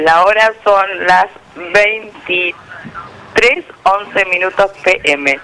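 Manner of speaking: dar la hora pausadamente, como locutora; lightly voiced radio announcer, with measured pauses; voz de locutora. Shown as a demonstration. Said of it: "con la voz de locutora". (voz de locutora, pausada)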